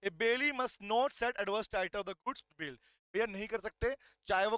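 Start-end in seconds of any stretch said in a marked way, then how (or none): 0.0-2.8 slow dictation. Shown as a demonstration. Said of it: "तो इसका मतलब क्या है?".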